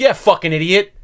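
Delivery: imitating an irritated comic's insult; irritated heckler. Old-time comic insults the host from stage, irritated. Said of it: "looking all irritated".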